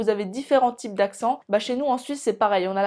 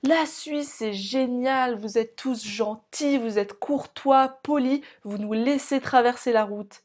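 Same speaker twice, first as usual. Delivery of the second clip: mock French comedian; slower than usual. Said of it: "les humoristes français qui disent".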